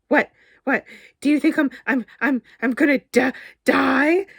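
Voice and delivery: high, loud, stuttering through giggles; quivering laughter. Acted. Barry jokes to Damien about dying, still laughing. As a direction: gasp the words out between laughs. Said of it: "Barry's laughter quivered".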